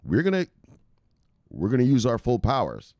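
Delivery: hammed-up boast that fades into normal voice; mock Big Brains. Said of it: "Big Brains is like".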